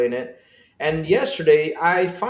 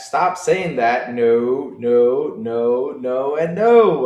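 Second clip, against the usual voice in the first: emphatic denial; 2 semitones lower, 5 dB louder, much slower than usual. Real, not acted. Loud teasing denial.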